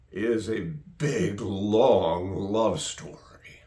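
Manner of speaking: a slow hushed whisper on long love story. Acted. Preacher softens to intimate hush.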